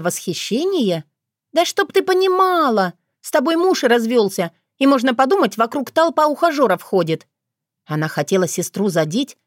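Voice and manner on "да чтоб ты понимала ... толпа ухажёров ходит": jab higher, trying to sting; spiteful retort. A narrator's reading. Younger sister lashing out at divorced sister, spiteful. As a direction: lash out to hurt her.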